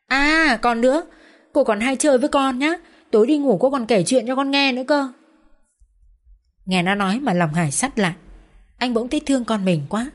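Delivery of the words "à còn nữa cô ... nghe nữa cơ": put-on high, eager child's voice; young daughter pestering her father and Vân, high childish voice; chatty little girl. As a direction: play a pushy, adoring little girl. Child character's voice.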